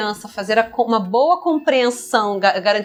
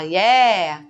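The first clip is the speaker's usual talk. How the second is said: word ending only, pitched lower; toddler echo; 4 semitones lower than usual. Acted. Child answering with the end of jacaré, imitated toddler echo. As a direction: echo just the final vowel like a toddler. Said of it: "Aí a criança fala".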